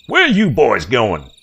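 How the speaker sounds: high, loud, slow furious yokel yell; filthy old man screaming after the boat; angry old hick. A narrator's reading. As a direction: bellow it like a cheated swamp hermit. Filthy man yells at fleeing boys.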